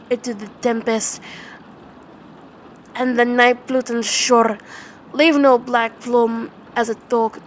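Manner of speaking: loud, driving order to be gone; furious command. Acted. Narrator ordering the raven away, loud and angry. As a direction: drive the bird out with your voice. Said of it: "I shrieked".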